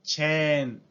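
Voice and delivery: chain as chen, long e, no glide; Japanese loanword. Shown as a demonstration. Teacher demonstrating the Japanese reading for class: チェーン. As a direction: give chain the Japanese vowel. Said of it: "se convierte en".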